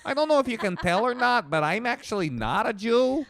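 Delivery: lightly hammed-up old Jewish man, high-pitched. Host jokes he's not a Jew, old Jewish voice. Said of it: "now you sound like an old Jew".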